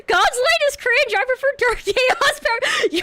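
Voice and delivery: playful high bratty voice; cute anime streamer. Pretend. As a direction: tease like a cute edgy girl. Playful edgy declaration.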